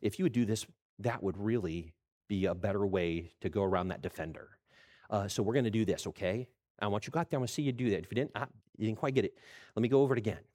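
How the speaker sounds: patient coach. Retold or imitated. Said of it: "the guys that would say".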